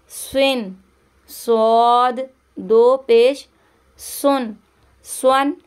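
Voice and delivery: स्वाद said with a thick s that turns back into a rounded vowel; heavy emphatic s for a Quran teacher. Shown as a demonstration. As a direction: round the lips on स्वाद and स्वन. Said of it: "आवाज़ पलट कर आएगी".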